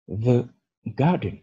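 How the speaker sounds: "The garden" read slowly for learners; slow model reading. Shown as a demonstration. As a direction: say each word slowly and clearly. (lecture lente et articulée)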